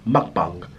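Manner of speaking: mukbang repeated low and falling, "muk-bahng" with a long open a; mukbang said the Korean way with a long a, pitched low; mukbang slowly in the Korean way, "bahng" not "bang"; Korean pronunciation. Shown as a demonstration. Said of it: "in Korea, A is long".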